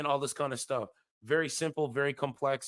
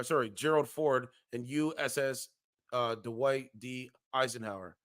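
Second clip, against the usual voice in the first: measured news-style reading of an article; formal reading of a grim forecast; article read aloud. Acted. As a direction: read it like a serious report.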